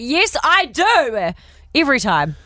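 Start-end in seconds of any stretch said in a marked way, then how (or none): 0.0-1.3 eager yes. Retold or imitated. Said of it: "And I'm like".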